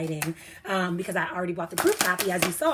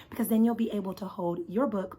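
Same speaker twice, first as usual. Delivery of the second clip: normal talking voice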